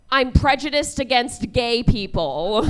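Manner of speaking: loud, slow, matter-of-fact declaration; mimicking a totally straightforward admission. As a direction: state it plainly and unashamedly, as imitation. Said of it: "in the most straightforward tone of voice".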